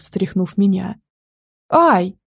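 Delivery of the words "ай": short louder ouch of pain; cry of pain. Acted. Girl yelping as he shakes her, short cry of pain. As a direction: yelp as the grip hurts. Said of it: "воскликнула я от боли".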